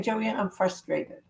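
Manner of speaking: soft, slow and quiet; quiet aside. Shown as a demonstration. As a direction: say it quietly, slowly, almost to yourself. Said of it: "You're saying".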